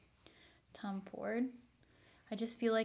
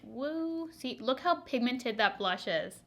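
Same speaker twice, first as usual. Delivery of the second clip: normal talking voice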